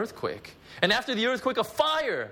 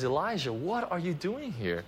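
gentle question; 2 semitones higher than usual. Retold or imitated. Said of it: "the Lord turns and says".

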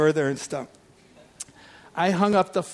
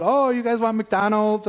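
put-on cheerful to the kids; 5 semitones higher than usual.

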